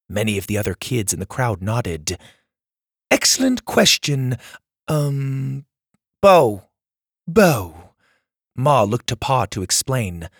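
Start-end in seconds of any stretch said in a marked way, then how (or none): 3.1-7.9 Ma's voice. Acted. Ma answers.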